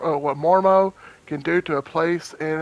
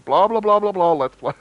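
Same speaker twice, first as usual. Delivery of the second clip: louder, bored dismissive mockery; dismissive blah blah; 3 semitones higher, 4 dB louder than usual. Shown as a demonstration. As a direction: brush it all off impatiently. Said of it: "Exactly how I feel like saying".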